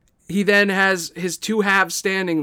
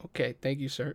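very soft, timid thanks; scared quiet thanks; 2 semitones lower, 11 dB quieter, faster than usual. Acted. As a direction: back away, barely audible. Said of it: "Kinda scared to speak".

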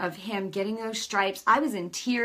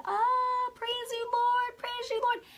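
much higher, ecstatic cries of praise; joyful praise; slower than usual. Retold or imitated. Jumping out of bed healed, praising the Lord with high joyful cries. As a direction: burst out praising like you're leaping.

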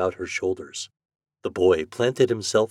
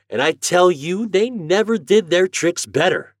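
put-on higher, louder country boy telling a story; lively farm boy; 8 semitones higher, 7 dB louder than usual. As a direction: tell it with gusto. Homer retells the visit.

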